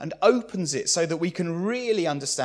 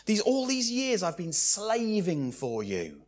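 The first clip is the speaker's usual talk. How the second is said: begrudging; 4 semitones higher than usual. Acted. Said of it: "He has the attitude of begrudging service".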